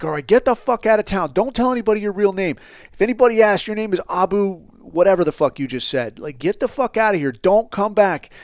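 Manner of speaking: final warning, emphatic; stern commands. Retold or imitated. Ordering informant away.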